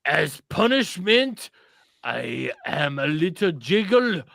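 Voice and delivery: a lightly put-on French accent, slow; mock French accent read slowly. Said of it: "read this in French accent".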